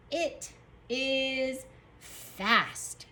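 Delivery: IT, IS, FAST very slow with gaps; slow word-by-word dictation. Shown as a demonstration. Teacher rereads while writing, very slowly. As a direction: spread out IT IS FAST. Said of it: "Our next sentence is going to say".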